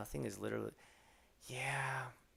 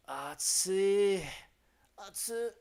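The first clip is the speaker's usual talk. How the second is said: mock complaining heat; 7 semitones higher, 4 dB louder, much slower than usual. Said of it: "let everybody know that it's hot".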